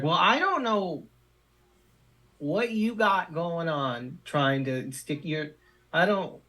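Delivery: high, indignant school official; stern principal. Acted. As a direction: scold him like an irate principal. GM voices angry principal.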